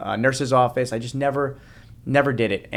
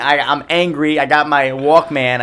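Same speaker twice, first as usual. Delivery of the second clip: higher and louder, laughing while retelling; animated retelling; 5 semitones higher, 9 dB louder than usual. Real, not acted. Guest laughing as he relives sulking in the back seat. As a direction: caught up in the memory, loud and bright.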